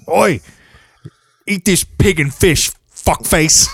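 put-on Cockney scolding, drawn out; mock Cockney. Cockney woman ordering someone to eat pig and fish, mock Cockney. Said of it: "it's that Cockney shit".

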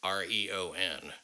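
letter by letter, slow and deliberate; 1 spelled out slowly. Shown as a demonstration. Host spelling the site name for listeners, slow. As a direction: spell each letter out carefully. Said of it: "but P A T".

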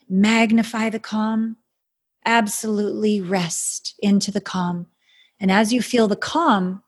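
slow, soothing healer's guidance; airy breathy mystical healer. Acted. Guides a calm meditation.

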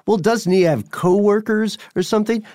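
lightly imitated listener, voice pitched well up; high-pitched mock query from a doubting listener; puzzled listener. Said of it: "hearing, uh, Radio Rental and thinking".

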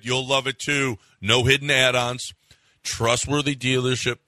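casual live radio ad read; sports host reading a car dealership ad. Acted. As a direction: pitch the dealership like a chatty radio spot. Host reads sponsor ad.

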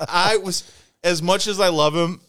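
ordinary talk, nothing marked

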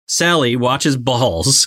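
put-on slow Australian-accented quote; a touch of Australian accent, drawn out slowly. Cohost quoting Nicole Kidman's line, Australian accent. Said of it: "Nicole Kidman's Australian accent come through".

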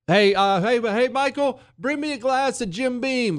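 mock-casual holler across the office; calling for a drink. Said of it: "But what if I said".

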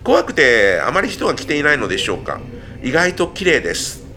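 a touch of perky reporter; lightly voiced TV reporter. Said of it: "マイクを持ったふりをしている一人". (テレビリポーター風の口調)

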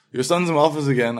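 a hint of a weary school principal on a call; complaining principal. Principal calling mom every day, lightly imitated complaint. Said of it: "the principal would call her".

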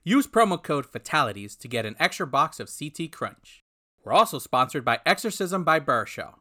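upbeat announcer ad voice; ad read. Acted. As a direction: read it like a cheesy sponsor spot. Fake sponsor ad read.

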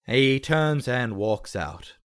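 slow, measured story narration; game master's scene setting. Acted. Game master narrates the plane taking off, slow and measured. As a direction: draw out the take-off for suspense.

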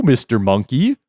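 high, sing-song jellyfish call; wobbly floating jellyfish. Acted. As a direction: coax the monkey in a lilting voice. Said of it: "he raised his voice and said".

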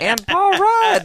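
high, loud, drawn-out exclamation; excited shout. Real, not acted. Completing the lookalike pair for co-host, excited shout.

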